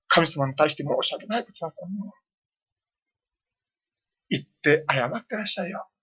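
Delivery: softly, a mild imitation of a gentle wife; gently. Wife gently urging the pastor to go apologise, softly coaxing. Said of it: "と優しく言いました".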